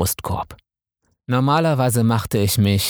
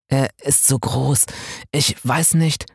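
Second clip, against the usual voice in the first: zaghaft verunsichert; 5 semitones higher than usual. Acted. Dev erstarrt ängstlich vor dem Eindringen.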